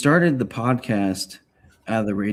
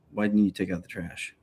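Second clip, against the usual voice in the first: nagging voice; 6 dB quieter than usual. Retold or imitated.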